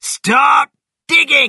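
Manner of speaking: very loud, shrill, booming yell. Bean tells Boggis to start digging for the fox, shouting. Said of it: "shouted Bean".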